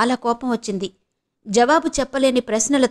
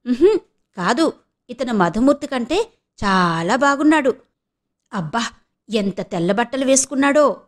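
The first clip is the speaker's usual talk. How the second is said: lightly voiced giddy gushing friend; gushing with delight. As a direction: gush over him, half teasing. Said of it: "పారిజాతం మురిసిపోతూ అంది".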